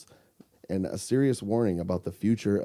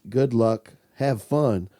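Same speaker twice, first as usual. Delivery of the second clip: a hint of singsong; title said almost like a jingle; lightly singsong title; much slower than usual. Shown as a demonstration. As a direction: read the title with a light lilt. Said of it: "it's basically like a song".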